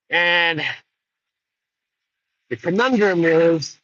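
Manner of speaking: high, slow, smug threat; young albino rider. Retold or imitated. Albino kid taunting Jude Law, high and slow. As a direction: lay out the advantage slowly and coolly. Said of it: "horse says".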